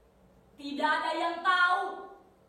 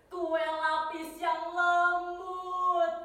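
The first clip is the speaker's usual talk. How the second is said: savouring; much slower than usual. Acted. Savouring the mouth as layer cake.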